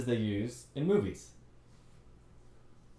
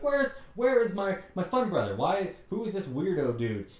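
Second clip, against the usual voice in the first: higher, louder teasing sister voice; mocking sister; 6 semitones higher, 4 dB louder than usual. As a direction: call out the brother, half-mocking. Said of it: "She's like".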